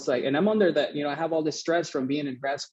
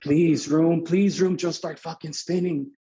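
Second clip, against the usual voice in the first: retold desperate begging, pitch a little raised; pleading; 3 semitones higher, slower than usual. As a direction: beg urgently, half-comic. Retold begging for room to spin.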